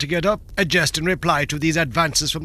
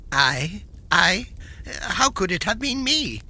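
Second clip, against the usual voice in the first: innocent surprise; 3 semitones higher than usual. Acted. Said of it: "merely ejaculated".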